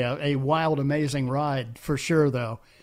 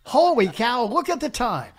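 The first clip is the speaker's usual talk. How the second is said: hammed-up shock at the time; mock surprise; 7 semitones higher than usual. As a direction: pretend to notice the clock.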